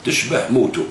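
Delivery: slow, measured recital of a quoted article; reading his article aloud. Retold or imitated. Vlogger reading the leader's own article back to him, slow recital. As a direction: read the quote deliberately, word by word. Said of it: "تقول".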